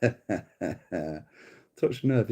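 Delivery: very slow, amused "Touch the nerve"; laughing taunt. Real, not acted. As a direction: savour the jab with a laugh. Taunting commenter.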